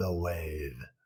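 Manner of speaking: really deep, very low, hushed, dropped delivery. Showing how you have to say these words, in a really low voice. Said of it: "you have to say it with a really low voice like that".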